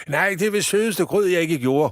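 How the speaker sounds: high, loud indignant shout; startled director yelling from his desk. Acted. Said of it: "råber direktøren".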